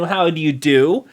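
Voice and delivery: ordinary delivery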